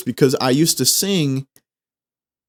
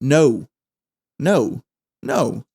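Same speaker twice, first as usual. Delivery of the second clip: no drawn out; slower; slower than usual. Shown as a demonstration. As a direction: stretch the word no slowly. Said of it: "Now say it slower".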